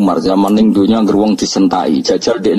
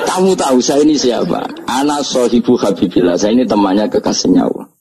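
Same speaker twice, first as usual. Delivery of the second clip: mock snapping rebuke; 3 semitones higher than usual. Umar tells the angel whose friend he is, mock snapping rebuke. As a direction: boast of rank as an acted rebuke. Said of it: "Orang nyentak wes disentak sih".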